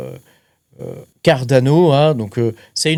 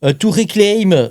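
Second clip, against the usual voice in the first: English read with a French accent; halting English in a strong French accent; Franglais; 2 semitones higher than usual. Real, not acted. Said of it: "je te le dis en français anglais". (anglais à l'accent français, hésitant)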